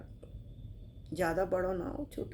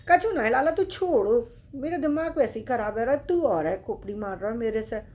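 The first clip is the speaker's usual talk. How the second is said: irritated brush-off; 6 dB louder than usual. Acted. Old man irritated.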